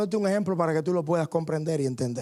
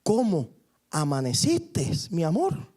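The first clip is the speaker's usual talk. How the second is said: tender; slower than usual. Retold or imitated. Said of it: "ve a su ancianita que abre los ojos".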